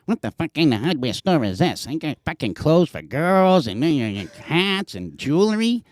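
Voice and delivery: mildly put-on complaining customer; lightly voiced angry customer rant; imitating a New Yorker. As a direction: grumble like a lost New Yorker in the aisle. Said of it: "I hear this".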